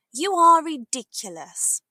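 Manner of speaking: indignant sister's rebuke; exasperated sister. Acted. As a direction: snap it at her foolish brother. Sister scolds the doctor.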